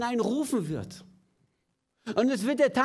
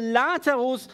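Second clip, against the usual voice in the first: calling Lazarus out in a loud voice; a commanding loud call of the name; 3 semitones higher, 5 dB louder than usual. Acted. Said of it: "rief er mit lauter Stimme".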